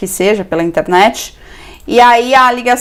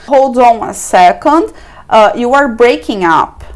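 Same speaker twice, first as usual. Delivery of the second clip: slow model phrase; slower than usual. Shown as a demonstration. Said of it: "Como é que você pode falar isso?".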